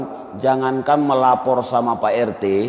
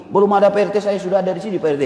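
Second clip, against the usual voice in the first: a mildly heated retort, a bit higher; the Medan temper starts to show; 5 semitones higher, faster than usual. Retold or imitated. To the RT who doubts he's a resident, mildly heated. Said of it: "naik darah dia".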